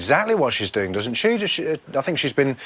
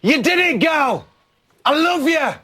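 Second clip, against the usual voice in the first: excited cheering; 12 semitones higher, slower than usual. Real, not acted. Host cheering a housemate who just won, excited squeal. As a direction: whoop for her like a proud best friend.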